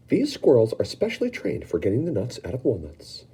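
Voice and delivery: a host showing off his workers; Wonka explaining. Acted. Wonka explaining the squirrels to the children, lightly voiced. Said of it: "Mister Wonka explained".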